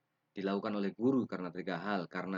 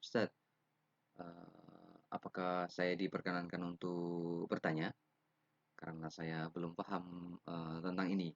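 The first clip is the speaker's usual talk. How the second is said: polite, gentle; 4 dB quieter than usual. Shown as a demonstration. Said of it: "itu etika-etika".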